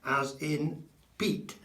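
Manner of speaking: "Pete" with a drawn-out long ee. Shown as a demonstration. Teacher contrasts the wrong long vowel. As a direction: stretch out "Pete" slowly. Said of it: "It's never E".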